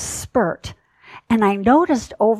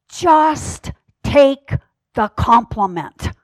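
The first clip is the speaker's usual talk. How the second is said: plain; 2 semitones higher, slower than usual. Retold or imitated. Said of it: "very sweetly, well, I wouldn't say sweetly".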